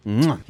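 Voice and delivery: a smacking chef's kiss on the lips. Real, not acted. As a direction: kiss the fingertips like a chef. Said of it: "making me do the chef's kiss".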